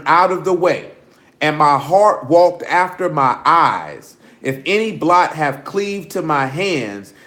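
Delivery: slow, measured reading of scripture. Acted. Preacher reading the law to the congregation, slow and measured. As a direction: read it out like the Bible.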